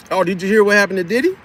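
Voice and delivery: quick, nosy mock gossip; annoying chatter. Talking a customer's ear off on purpose, quick pestering chatter. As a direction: rattle off a new topic to pester. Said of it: "talk your ear off".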